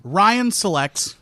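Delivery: slow, formal draft announcer. Pretend. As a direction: announce the pick like the NFL draft.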